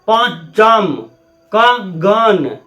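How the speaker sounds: पंचम and कगन very slow, nasals held; nasal vibration demo. Shown as a demonstration. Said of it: "नाक में vibration होगा". (पंचम, कगन धीरे-धीरे, नाक में कंपन के साथ)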